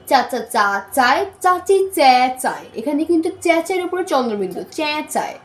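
slow, every চ syllable separate; slow model reading. Shown as a demonstration. Teacher modelling practice for learners with চ trouble. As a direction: slowly sound out চাচি চে চায়. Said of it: "যেমন".

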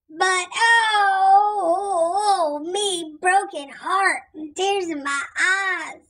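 theatrical mock grief over no present; mock lament. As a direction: play up the pirate's heartbreak. Narrator laments missing present.

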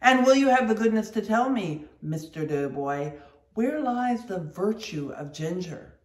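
loud, fast, scornful harangue; mate scolding the steward over the ginger; scornful tirade. Acted. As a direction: dress down the steward. Stubb berating the steward.

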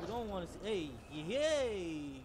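high loud chaotic yelling; loud frantic shouting. Real, not acted. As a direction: yell through the chaos. Dying then cheering.

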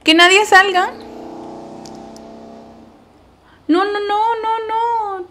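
very high, loud panicked yelling; panicked shout. Real, not acted. Gamer yells at zombies escaping in her game. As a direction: shriek at the screen as a zombie appears.

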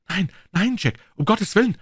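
high, distraught plea; agitated moan. A narrator's reading. Wife stops husband entering the house, moaning in terrible agitation. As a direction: moan it, unable to master your agitation. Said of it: "stöhnte sie, außerstande, ihre furchtbare Aufregung".

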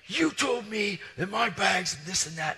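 high, drawn-out angry yell; screaming. Retold or imitated. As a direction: act out an irate customer, slowly hammering the words. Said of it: "he is screaming".

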